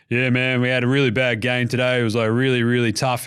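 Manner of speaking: low, steady athlete's interview voice; Tyrese Halliburton's normal voice. Retold or imitated. Host imitates player describing a bad game, low even voice. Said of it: "Tyrese Halliburton, though, his weird voice".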